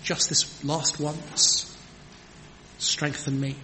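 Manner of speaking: slow, earnest plea on just this last once; a mild, sincere prayer for strength; humble plea. Retold or imitated. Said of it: "Crying out".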